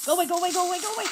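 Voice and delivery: high, very loud repeated shriek; scream. Real, not acted. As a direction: scream it in terror. Screaming at creeper.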